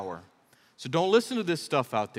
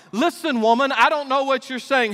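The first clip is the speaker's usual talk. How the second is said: higher, louder brush-off; heated denial; 8 semitones higher, 6 dB louder than usual. Retold or imitated. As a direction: shove the accusation away. Peter denying to the woman.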